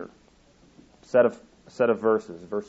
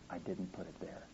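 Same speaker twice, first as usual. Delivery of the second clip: very soft, low and grave; hushed, sorrowful admission; somber; 4 semitones lower, 20 dB quieter than usual. Acted. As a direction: let it fall quietly and heavily. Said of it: "The Lord looked somber".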